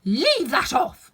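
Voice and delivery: high, loud, drawn-out scream. A narrator's reading. The Queen screaming at the bowing gardeners. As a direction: scream the order, stretching each word. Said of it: "screamed the Queen".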